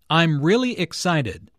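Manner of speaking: emphatic "really" in a clear model sentence; stress on "really". Shown as a demonstration. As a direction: lean hard on "really". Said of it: "Notice the emphasis on really".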